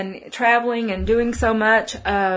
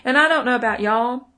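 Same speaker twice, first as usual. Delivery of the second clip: Texas accent. Real, not acted. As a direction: let a bit of Texas slip out. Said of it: "That's my little Texas accent there".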